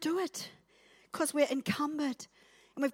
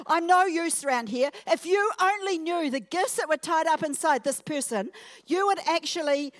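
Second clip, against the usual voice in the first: mock self-pity; 6 semitones higher, 3 dB louder than usual. Preacher acting a self-pitying churchgoer.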